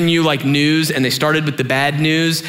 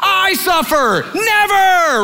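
high, incredulous protest; indignant rebuke; 10 semitones higher than usual. Retold or imitated. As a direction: act out a disciple appalled at his master. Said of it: "begins to rebuke him".

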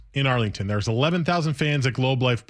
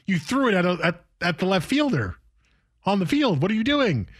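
incredulous, rising higher toward the end; mock exasperation; 4 semitones higher than usual. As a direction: scold him like a baffled buddy. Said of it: "It's like".

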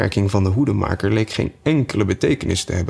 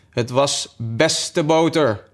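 slow, higher, humble hare voice; meek hare; 5 semitones higher, much slower than usual. A narrator's reading. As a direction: say it meekly, very slowly. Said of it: "antwoordde de Maartse haas deemoedig". (deemoedig, traag hazenstemmetje)

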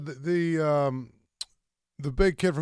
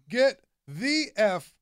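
exasperated shout. Acted. Mock outrage at list ranking.

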